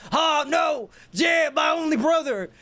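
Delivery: hammed-up cry of grief; mock anguish. G W shouting over his fallen brother, hammed-up grief. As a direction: wail it like a cartoon villain losing.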